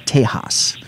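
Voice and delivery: Tejas said the Spanish way, soft h; Tejas, soft Spanish style; Spanish pronunciation. Shown as a demonstration. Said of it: "as some people call it".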